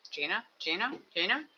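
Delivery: "Jaina" tried several ways, rising questioningly; "Jaina" sounded out uncertainly each time; testing pronunciation. Shown as a demonstration. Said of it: "I don't know how to say".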